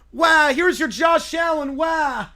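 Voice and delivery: proud shout. Acted. Summer proudly hands Gordon a turnover, loud excited shout. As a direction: announce it like a prize.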